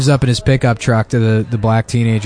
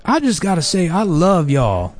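put-on higher-pitched old lady drawing out the end; 5 semitones higher, slower than usual. An old lady praising neighbours out front, old lady voice. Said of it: "this, like, old lady walks by".

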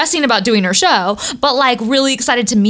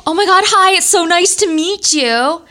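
higher, eager gushing hello; excited gushing greeting; 7 semitones higher than usual. Retold or imitated. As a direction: retell a starstruck fan meeting her idol. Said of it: "I'm so excited to meet Barbara Walters".

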